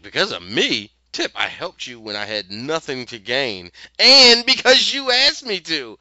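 rising into a loud, high, slowed indignant outburst; Dorothy snaps back at Tip, building to loud indignation; indignant retort. Retold or imitated.

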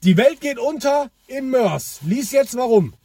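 slow, dramatic doom headline; clickbait video narrator. Retold or imitated. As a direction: announce it like breaking doom. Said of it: "aber schreib doch nicht".

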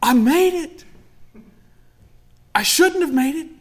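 high, bright cry of astonishment; astonished joy. Retold or imitated. Saved believer marveling at heaven, high astonished exclaim. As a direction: exclaim that you made it. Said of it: "you're gonna be like".

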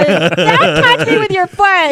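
high shrieking protest, drawn out. Real, not acted. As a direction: shriek it out slowly in disgust. Friends squabbling over footsie.

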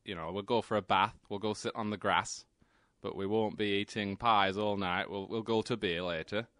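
a light Yorkshire accent, easygoing. Shown as a demonstration. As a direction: play it like a Yorkshireman off to the pub. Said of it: "they talk like that".

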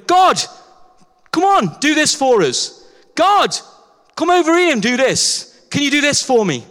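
pushy pleading to God; mock pleading. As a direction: beg God to come over.

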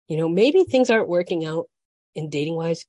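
talking through hiccups; hiccuping between words. Real, not acted. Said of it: "I'm hiccuping".

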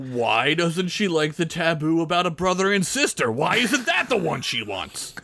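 hammed-up wail of frustration; mock aggrieved. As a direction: plead it as a joke. Acting the jealous character's complaint.

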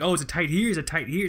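lightly imitated Middle Eastern accent, Russian-tinged; mock Middle Eastern accent that comes out Russian; attempted Middle Eastern accent. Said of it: "Russian is the best Middle Eastern accent".

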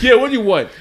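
imitated teacher yelling, high and loud; brusque shout. Teacher answering a kid at the lounge door, mock brusque shout. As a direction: holler it through a closed door.

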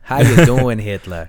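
mock-Minnesotan greeting; Minnesotan Nazi. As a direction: put on a folksy Minnesota accent. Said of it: "that Minnesotan Nazi".

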